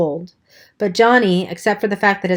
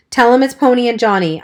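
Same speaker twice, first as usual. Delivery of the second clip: louder, higher firm order; commanding; 5 semitones higher, 4 dB louder than usual. Acted. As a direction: boss the drunk into obeying. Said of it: "I commanded".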